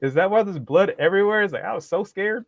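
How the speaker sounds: high fake-frightened whine; mock terrified. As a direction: play the frightened one to the officer. Continues mock frightened victim.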